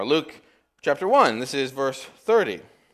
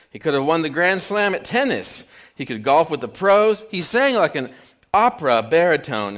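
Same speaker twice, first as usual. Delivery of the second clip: higher, louder gushing cabbie; raving cabbie; 4 semitones higher, 4 dB louder than usual. Retold or imitated. Cabbie raves to his passenger, a higher, louder gush.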